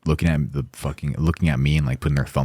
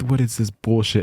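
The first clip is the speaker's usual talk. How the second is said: higher-pitched retold outrage; livid; 7 semitones higher than usual. Guest protesting the police shutdown, livid. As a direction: imitate an indignant, livid guy. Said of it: "The guy is fucking livid".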